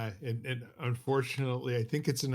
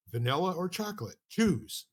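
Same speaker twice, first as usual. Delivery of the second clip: higher, insistent retold command; mock seminar leader; 6 semitones higher than usual. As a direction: push the volunteer to pick, a bit higher. Leader repeats the choice.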